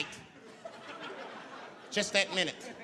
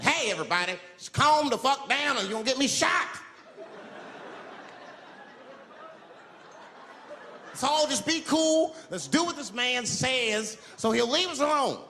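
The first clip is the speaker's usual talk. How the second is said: urging calm; 7 semitones higher than usual. Acted. Calming the crowd.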